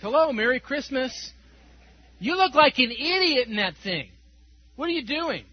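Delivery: loud, jeering holiday heckle; retold mocking yell. Stranger jeering at the man in his convertible, loud mocking yell. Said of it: "He just yells out in the parking lot".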